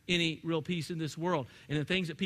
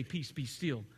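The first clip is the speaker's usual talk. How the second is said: soft quote; 7 semitones lower, 10 dB quieter, slower than usual. Acted. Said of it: "who can say".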